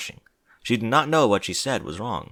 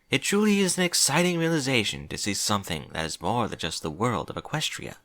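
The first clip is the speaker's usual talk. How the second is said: slightly higher princess voice; lightly voiced regal princess; 4 semitones higher than usual. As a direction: lightly play a princess addressing an assembly. Voices Princess Celestia's speech.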